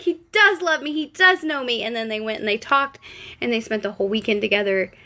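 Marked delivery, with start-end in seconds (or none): 0.0-1.8 high, swooning and delighted; mock-swooning young woman, much higher; giddy girlfriend. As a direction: gush to yourself in disbelief. She swoons over him.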